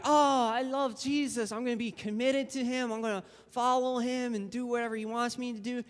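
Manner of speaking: lightly hammed-up devotion; gushing devotion. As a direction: imitate an eager, lovestruck new convert. Quotes eager new believer's vow.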